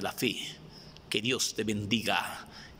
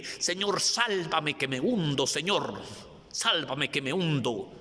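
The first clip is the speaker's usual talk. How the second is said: cry of faith; 4 semitones higher than usual. Acted. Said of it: "grítale al Señor con ese grito de la fe".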